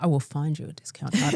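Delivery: deadpan impression of a pharmacy clerk; unchanging affect. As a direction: say it with no change of expression. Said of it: "she didn't change her affect at all".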